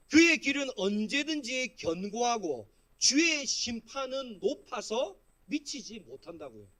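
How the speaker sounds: slow, loud, measured Bible reading; scripture reading. Acted. Pastor leading the congregation in reading the psalm, scripture reading. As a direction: read the verse out firmly for all to follow. Re-reads the verse to explain it.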